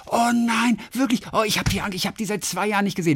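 high, gushing dismay in imitation; mock-dramatic friend missing someone, high then easing; retold fond lament. Retold friend lamenting long time apart.

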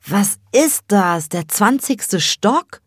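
slow, loud, out-of-breath squawk; excited crowing. Acted. Little Cem arrives breathless after climbing the stairs, excited. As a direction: crow it, winded from the stairs. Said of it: "kräht Cem aufgeregt und völlig außer Atem".

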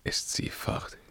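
hushed, broken whisper over the dead; king whispering over his dead beloved; grieving whisper. Acted. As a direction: whisper it to yourself. King alone after body removed.

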